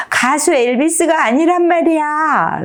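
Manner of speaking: high-pitched indignant mock scream; high cry, held back in volume; acted yell. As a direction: protest like a frustrated child in a story. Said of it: "라고 소리를 질렀어요".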